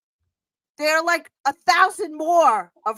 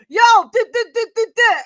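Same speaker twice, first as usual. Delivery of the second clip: mock New York mumble; 8 semitones higher, 8 dB louder than usual. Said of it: "because if I'm just like".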